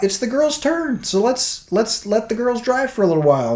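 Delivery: mock cheerful idea. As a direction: pitch it up like a bright idea. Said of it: "I thought".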